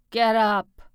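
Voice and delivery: loud barked command; ordering. A narrator's reading. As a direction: snap him to his feet. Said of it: "Jonas ordered".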